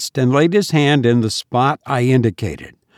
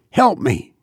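despairing plea; 3 semitones higher than usual. A narrator's reading.

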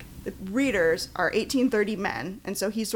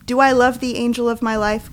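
loud, declaimed love vow; theatrical declaration of love; crying out; 3 semitones higher, 7 dB louder than usual. A narrator's reading. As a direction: proclaim it like an ardent suitor. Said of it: "cried the captain".

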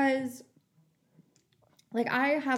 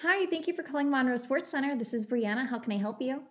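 bright phone greeting, pitched up on the hi; customer service voice; 4 semitones higher than usual. Shown as a demonstration. Answering the sports center phone in a sweet customer service voice. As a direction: answer the call like a polite receptionist. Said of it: "Can you give them an example of customer service, Brianna, please?".

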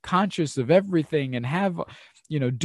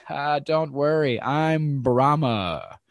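slow, airy brush-off; dismissive calm; much slower than usual. Retold or imitated. Traveller brushing off the guide's warning, mildly amused and slow. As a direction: wave the danger away, unbothered. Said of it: "The guy laughs".

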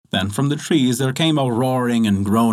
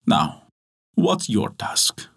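low, slow menacing devil; the devil asks the miller his task; devil's question; 3 semitones lower, much slower than usual. Acted. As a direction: drag it out, toying with him.

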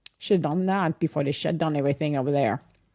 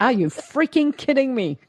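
laughing mock disbelief; 7 semitones higher than usual. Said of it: "I'm like".

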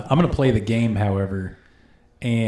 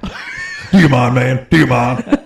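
mock offended; 6 dB louder, slower than usual.

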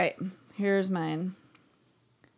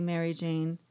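soft whispered farewell with a tear; tearful whisper; 3 semitones lower, 4 dB quieter, much slower than usual. Acted. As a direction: breathe it through tears at the casket. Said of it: "Whispered with a tear sliding".

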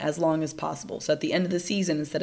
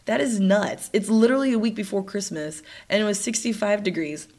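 stuffy, nasal voice from sinus trouble; blocked-up nasal tone; 2 semitones higher than usual. Real, not acted. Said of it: "I sound a bit nasally".

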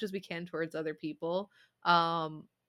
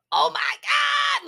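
much higher, loud, slow shriek; excited yell; 10 dB louder, slower than usual. Retold or imitated. Owner demonstrating the yell that calls her cat, loud shriek. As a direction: let out a war-cry shout. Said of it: "when I yell really loudly".

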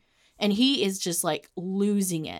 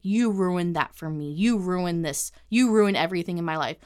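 retold accusation. Imitating boyfriend in their constant fight, accusing. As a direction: drag out each accusation, building at the end. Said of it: "that was a constant fight".

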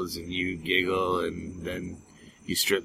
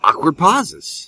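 mock dramatic; 9 semitones higher, 7 dB louder, slower than usual. Commenting on awkward silence.

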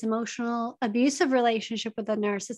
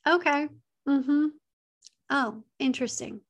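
gray rock; 2 semitones higher than usual. Shown as a demonstration. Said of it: "you need to go very gray rock".

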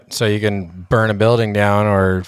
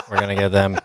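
lightly voiced alien with a laugh; half-joking alien impression, barely put on; faster than usual. Joking to cohosts about aliens coming for people, lightly put-on alien voice. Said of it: "How's my alien voice?".

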